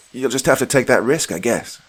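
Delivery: smug taunt. Acted. Villain taunting.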